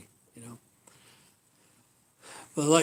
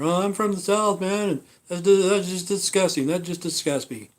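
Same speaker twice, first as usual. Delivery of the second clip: lightly voiced Southern old man, mildly higher; a hint of a folksy Southern ex-president, mock disgust; mild hammed-up imitation of a disgusted Southern elder; Jimmy Carter impression; 3 semitones higher than usual. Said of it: "How about Jimmy Carter?".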